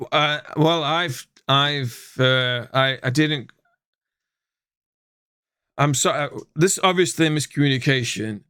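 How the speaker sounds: put-on a light Australian accent, stammering apology; flustered alien with a hint of Australian accent; thick Australian accent. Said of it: "he says in his thick Australian accent".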